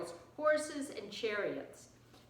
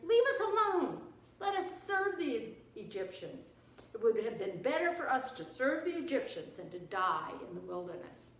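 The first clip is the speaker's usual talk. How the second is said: complaining; 3 dB louder than usual. Acted. Frightened Israelites blame Moses by the sea, complaining. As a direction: complain bitterly, flaring up at the sharpest reproaches. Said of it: "here's their complaining".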